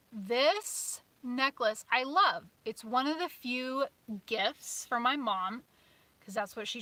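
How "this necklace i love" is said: fond. Real, not acted. Slow fond repeat.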